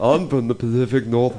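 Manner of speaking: lightly mimicked, bad Pacific Northwest accent; mock Pacific Northwest accent. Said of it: "he tried to do a Northwest".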